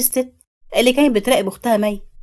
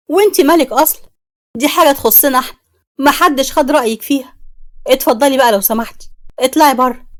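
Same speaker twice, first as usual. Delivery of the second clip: angry outburst; 3 semitones higher, 4 dB louder than usual. Acted. Rahma angrily orders the neighbor out of the house. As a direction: throw the nosy neighbor out, furious.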